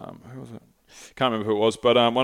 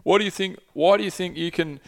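higher, indignant lecturing tone; scolding journalist; 6 semitones higher than usual. Retold or imitated. Journalist berates activist over traffic jams, indignant and higher. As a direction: wag your finger at the protester, voice pitched up. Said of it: "He's like, and he's like".

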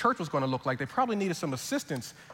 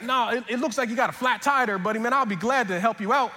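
put-on higher-pitched friendly Southern accent; Southern accent, pitched up and eager; 5 semitones higher, 3 dB louder than usual. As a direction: offer the help like a kind Southern mechanic. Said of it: "stick with this accent".

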